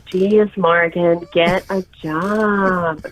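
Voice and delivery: put-on very slow, drawled party girl; drunk party girl voice. Shown as a demonstration. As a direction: drag it out like a tipsy girl. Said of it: "I don't like my voice".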